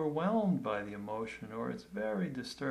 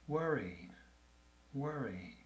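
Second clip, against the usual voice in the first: soft, gentle naming of worry; kind and gentle; 4 dB quieter than usual. Shown as a demonstration. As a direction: say it kindly, like soothing a friend. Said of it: "in a kind and gentle voice".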